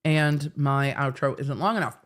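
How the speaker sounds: talking around ice in mouth. Real, not acted. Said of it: "I have ice in my mouth".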